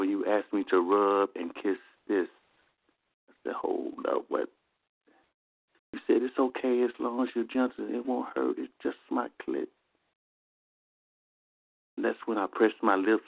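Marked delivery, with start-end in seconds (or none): 3.5-4.5 startled whisper; hushed, caught off guard. Retold or imitated. Startled reply in love scene. 6.2-9.7 soft, intimate, fading quieter; right in your ear. Retold or imitated. Lover's intimate reassurance quoted.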